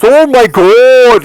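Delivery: loud, drawn-out, high mock Indian accent. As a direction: draw it out in an imitated Indian accent. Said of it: "like, with his accent".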